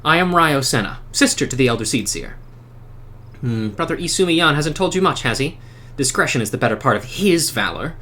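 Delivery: lightly voiced wry seer; NPC sister. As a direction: read her lines with dry pride. Reads sister NPC lines.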